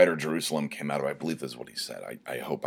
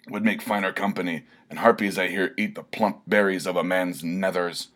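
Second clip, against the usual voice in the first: despairing barbarian; 2 semitones higher than usual. Acted. Barbarian laments being pushed aside, declaiming rant. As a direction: rant it like a spurned hero.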